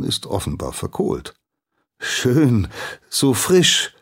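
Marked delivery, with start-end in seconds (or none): 2.0-3.9 high, loud and eager; boy overeagerly praising the charcoal burner; overeager praise. Acted. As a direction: gush too keenly to please. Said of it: "lobt der Junge übereifrig".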